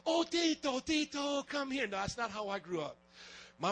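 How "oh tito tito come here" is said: high, fussing mother cooing over a scraped knee; a gentle mom comforting her boy; doting mom voice. Retold or imitated. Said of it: "some of y'all grew up with moms like".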